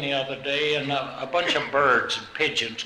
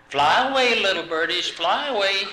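sweet birdie coaxing; 5 semitones higher than usual. Retold or imitated. Old lady sweet-talking birds.

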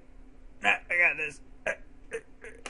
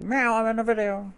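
lightly voiced cat, higher pitch; imitated cat; 4 semitones higher, 4 dB quieter than usual. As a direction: mimic a meowing cat talking. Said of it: "You just like".

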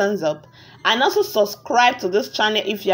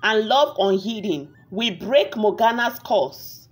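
story narration. A narrator's reading. Narrator tells viewers a tale of a wicked witch, measured storytelling. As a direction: narrate a village fairy tale, unhurried.

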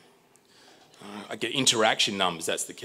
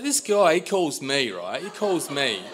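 high-pitched mock indignation; indignant complaint; 7 semitones higher, slower than usual. Customer complaining about the salesman who called him, indignant. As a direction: protest it high, hitting each claim.

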